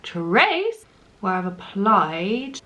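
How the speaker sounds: slow, drawn-out Trace where I've applied with a lifting end; dramatic. Real, not acted. Vlogger hamming up a tutorial step to viewers, slow and dramatic. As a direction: stretch every word like a grand announcement. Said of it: "why am I so dramatic?".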